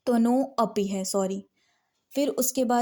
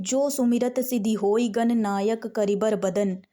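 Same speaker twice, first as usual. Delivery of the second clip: in one go. Shown as a demonstration. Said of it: "एक ही बार में कुछ लोग पढ़ देते हैं".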